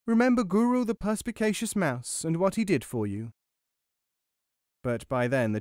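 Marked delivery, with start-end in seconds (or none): 0.1-3.3 high-pitched, self-important little mouse; mouse calling back. A narrator's reading. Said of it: "he called back at them".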